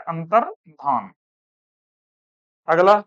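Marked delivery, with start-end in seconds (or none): 0.1-1.1 अंतर्धान spelled out slowly for students to write; slow dictation. Shown as a demonstration. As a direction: draw out अंतर्धान syllable by syllable. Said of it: "क्या होता है?". (अंतर्धान को धीरे-धीरे, बोलकर लिखवाएँ)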